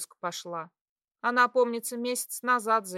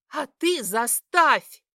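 slow, loud growl; growled dare; 4 semitones higher, 8 dB louder, slower than usual. A narrator's reading. Daughter growling a dare at her mother. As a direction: growl the challenge. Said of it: "прорычала я".

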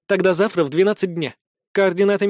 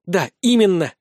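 heated; 2 semitones higher than usual. Acted. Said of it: "горячо заявила Вика".

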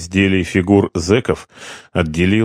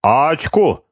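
high triumphant call of the winning hand; 8 semitones higher than usual. A narrator's reading. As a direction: announce it with ceremony. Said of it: "торжественно заявил грузин".

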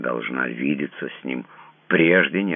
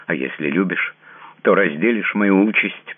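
louder, higher, almost crying out; near shout; 6 semitones higher, 5 dB louder than usual. A narrator's reading. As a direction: she demands he share her fate. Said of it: "почти крикнула она".

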